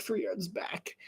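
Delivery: "three yards back" whispered; whispered echo of "three yards back"; whispered repeat. Shown as a demonstration. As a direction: repeat it under your breath.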